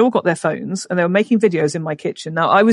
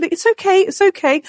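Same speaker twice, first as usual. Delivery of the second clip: retold soothing; 10 semitones higher than usual. Soothing a screaming child, retold.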